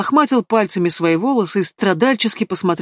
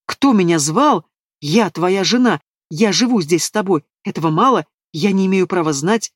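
fuming. Acted. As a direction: spit each question out angrily. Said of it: "Лера уже полыхала".

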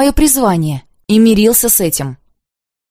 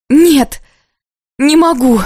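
sudden high protest; outcry; 7 semitones higher, 4 dB louder, slower than usual. A narrator's reading. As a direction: burst out, jumping up. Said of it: "вскакиваю я".

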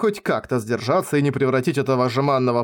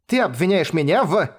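indignant, higher-pitched accusation; boiling over; 4 semitones higher than usual. A narrator's reading. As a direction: start an angry challenge. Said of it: "вскипела я". (возмущённо, вскипая)

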